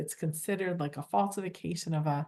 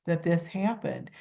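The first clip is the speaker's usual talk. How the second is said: a mild humble sorry; humble apology. Shown as a demonstration. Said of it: "your voice is very humble".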